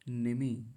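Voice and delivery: 'निमि' with both i's short; quick short vowels. Shown as a demonstration. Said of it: "तो जल्दी बोलेंगे".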